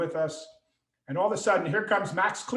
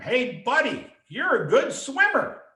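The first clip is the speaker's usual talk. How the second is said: high-pitched, slightly louder call; retold friendly yell; 8 semitones higher, 4 dB louder than usual. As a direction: call out like an excited son across a pool. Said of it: "Sean yells at him".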